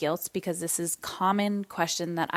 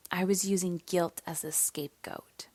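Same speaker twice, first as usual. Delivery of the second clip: whispering; 5 dB quieter than usual. Real, not acted. Quiet confession of guilt.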